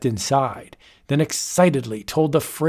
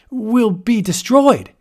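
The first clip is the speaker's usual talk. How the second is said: higher, louder, slow frightened plea; frightened cry; 8 semitones higher, 6 dB louder, slower than usual. Acted. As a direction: beg in alarm. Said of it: "Richard stammered".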